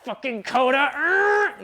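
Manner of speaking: loud, high exasperated growl; hammed-up outburst of frustration; mad. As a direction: curse him, then strain into a high grunt. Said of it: "she's mad at him and she's like".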